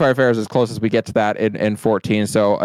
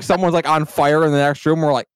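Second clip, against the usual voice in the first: ordinary talk, nothing marked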